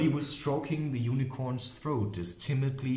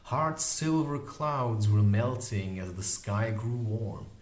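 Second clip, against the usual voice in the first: usual speaking voice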